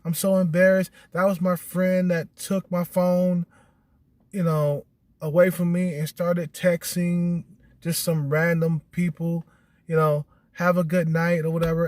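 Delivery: a hammed-up girl saying sorry. Man mimicking the woman texting excuses, high mock apology. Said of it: "She was like".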